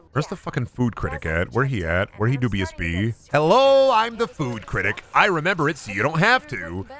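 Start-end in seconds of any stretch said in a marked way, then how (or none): 3.3-6.9 silly high character voice. Pretend. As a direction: pop up with a squeaky cartoon hello. Voicing the food critic.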